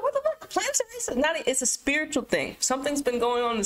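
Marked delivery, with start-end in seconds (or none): 0.0-1.2 mock shock. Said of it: "You're like".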